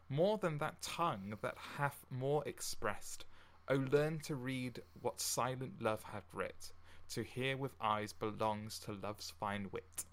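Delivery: slow, measured recital of a sonnet; poem reading. Acted. Host reciting Sonnet twenty-three to listeners, slow and measured. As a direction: read it like verse on a stage.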